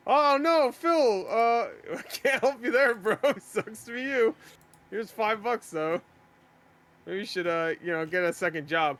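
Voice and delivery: high, smug mock donor. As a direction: talk down to the beggar. Mocking a condescending donor.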